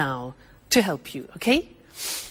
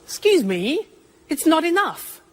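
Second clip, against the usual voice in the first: "it's not enough" with raised, indignant pitch; mock complaint; 7 semitones higher than usual. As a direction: complain like an unhappy customer. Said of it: "You say".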